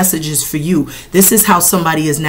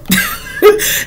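laugh. Real, not acted. Laughs after mock quote.

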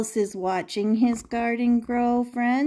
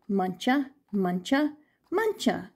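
sing-song title; 4 dB quieter than usual. Shown as a demonstration. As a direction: chant the name playfully for kids.

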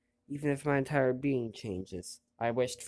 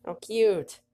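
high, loud squeal of delight; delighted girl; 9 semitones higher, 6 dB louder than usual. Acted. Girl meets the winged creature, a high delighted cry. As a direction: gush over something adorable. Girl's delighted line read aloud.

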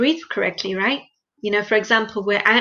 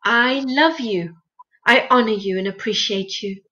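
devotional prayer. Shown as a demonstration. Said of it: "So we say".

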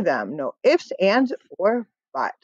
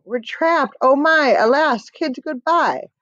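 mock panic, pitched high; a theatrical teacher wailing in fright; hammed-up scream; 5 semitones higher than usual. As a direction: melodramatic cry of alarm. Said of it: "started to scream".

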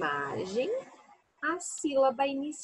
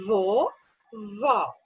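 "Vovó" drawn out slowly, both syllables clear; "Vovó" said long and slow for counting syllables; stretched for syllables; 2 semitones lower than usual. Shown as a demonstration. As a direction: stretch "Vovó" so the children hear each syllable.

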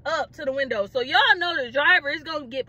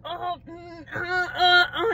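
high, wordless panicky whimpers; mock freaking out; 3 semitones higher, slower than usual. Panicking at the police car, high mock whimpering. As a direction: imitate panicking, barely getting sounds out. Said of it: "I was freaking out".

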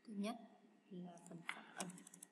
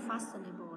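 "fashionable" punched on its first syllable, louder; stress on first syllable; 7 dB louder than usual. Shown as a demonstration. Teacher showing the odd one out, first syllable of "fashionable" stressed. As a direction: hit FA in "fashionable". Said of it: "là âm đầu".

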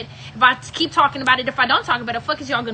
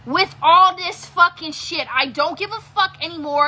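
irritated, slow and emphatic; sounding mad; 3 semitones higher, 3 dB louder, slower than usual. Real, not acted. Streamer telling viewers to stop, sounding really mad. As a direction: stretch the words out in real annoyance. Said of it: "Well, you sound so mad".

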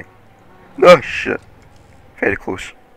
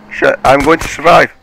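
excited cheer; 6 semitones higher, 8 dB louder than usual. Real, not acted. Gamer cheering narrow escape.

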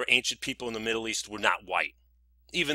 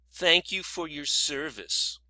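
slow, slightly higher mock thanks; mimicked TV host; 4 semitones higher, slower than usual. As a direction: lightly imitate a host's stock line. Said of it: "the host or whatever always says".

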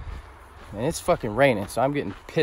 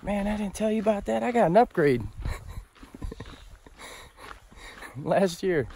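smug Poseidon; 9 semitones higher than usual. Retold or imitated. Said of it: "He's like".

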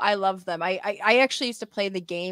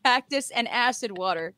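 mock salesman; 4 semitones higher, 4 dB louder than usual. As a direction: sell it like a hammed-up huckster. Mock product pitch of drink.

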